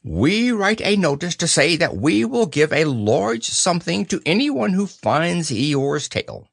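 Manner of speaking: high, proclaiming owl voice; Owl, pompous. Acted. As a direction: announce it importantly as an owl.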